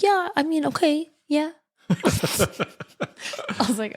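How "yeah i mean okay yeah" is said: much higher, coy mom voice feigning reluctance; hammed-up mother pretending not to care; imitating eager mom.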